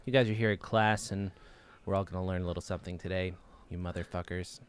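soft, fast public-radio voice dropping to a quiet curse; lightly impersonated host sneaking in an insult; swearing Ira Glass. Pretend. Ira Glass addressing his class, mild radio voice ending quietly. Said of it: "the idea of him swearing".

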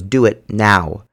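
stern command. Retold or imitated. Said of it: "his tone changed".

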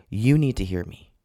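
firm, insistent demand; imitating a firm mentor. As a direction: insist on being heard. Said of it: "by how firmly he was saying that".

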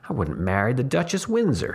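firmly. Acted. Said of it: "he said firmly".

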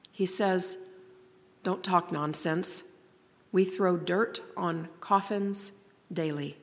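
hushed solemn poem ending; poem reading. Acted. Reads the adult's closing words.

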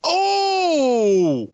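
high loud gasping oh; shocked gasp. Real, not acted. Shocked at Batman comparison.

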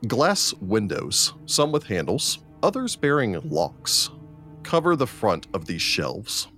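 deliberate, drawn-out room description; game master scene setting. Acted. Game master reveals a chamber of shelves, narrating. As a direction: paint the room slowly, pausing between phrases.

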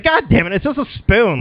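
high-pitched acted frustration; exasperated. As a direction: complain like a fed-up player. Exasperated player voiced in retelling.

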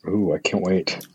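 breathy teasing whisper. Real, not acted. Whispering to the host about Aussie accents. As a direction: whisper it, all excited.

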